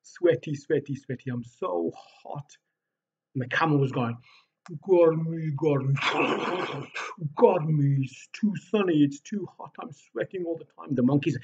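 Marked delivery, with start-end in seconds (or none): 0.0-2.6 whiny complaint, fading to a whisper; moaning hot animal. Acted. 4.9-10.9 whiny camel, louder on each garmy; complaining camel. Acted.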